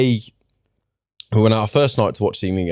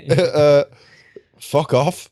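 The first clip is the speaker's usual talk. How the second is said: higher, laughing fuck off; laughing dismissal; 6 semitones higher, much slower than usual. Real, not acted. Friend laughing off the braggart, higher pitched. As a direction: laugh it off in disbelief. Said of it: "reacting to own mock brag".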